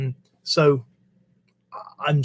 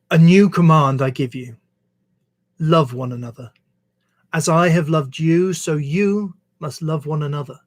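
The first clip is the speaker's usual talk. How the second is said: measured reading aloud of a verse; scripture reading. Acted. Reader sharing Jesus's words from the Bible, measured scripture reading. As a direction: read it out in phrases, pausing between them.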